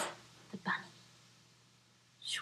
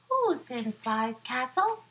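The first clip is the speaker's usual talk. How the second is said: flea calling out; 5 semitones higher, 5 dB louder than usual. Acted. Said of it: "Flea called out".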